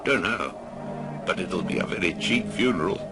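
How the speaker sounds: chuckling, sneering townsman; mocking gossip. Gossip jokes to his friends about the funeral, chuckling. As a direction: laugh at the dead man's cheap funeral. Man mocks the dead.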